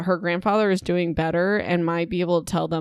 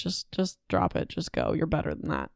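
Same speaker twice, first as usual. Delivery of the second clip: much softer, earnest plea; quiet sincere advice; 4 semitones lower, 8 dB quieter than usual. Real, not acted. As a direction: lean in and urge them softly. Advising listeners to leave narcissists.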